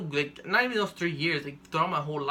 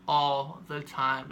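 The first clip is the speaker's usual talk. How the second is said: ALL THE TIME stretched out very slowly; drawn-out emphasis; much slower than usual. Real, not acted. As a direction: lean slowly on each word of "all the time". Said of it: "when I'm telling you all the time".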